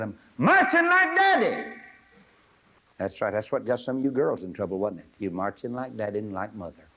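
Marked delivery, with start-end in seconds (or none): 0.0-1.7 put-on high, slow child's holler; little boy calling. Boy calling to his mother as his father marches by, high child holler. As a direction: call out like a proud small boy. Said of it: "He hollered at his mother".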